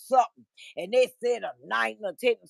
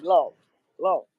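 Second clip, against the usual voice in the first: mocking an upset man; 7 semitones higher, slower than usual. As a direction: imitate him whining he wasn't mentioned. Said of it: "He said".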